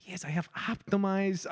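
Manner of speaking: put-on half-hearted German accent; lightly voiced evil German scientist. Scientist reporting to the board, hint of German accent. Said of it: "the evil German guy's like".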